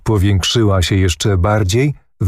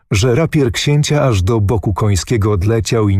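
usual speaking voice

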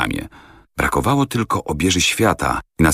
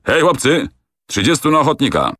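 captain calls to his soldiers, raised and higher; calling out; 10 semitones higher than usual. A narrator's reading. Kapitan woła do żołnierzy, podniesionym, wyższym głosem. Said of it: "rzucił".

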